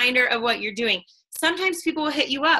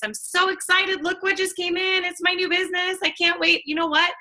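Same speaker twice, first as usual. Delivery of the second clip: much higher, gushing delight; excited unboxing; 7 semitones higher than usual. Shown as a demonstration. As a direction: squeal over the new box. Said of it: "your box comes in and be like".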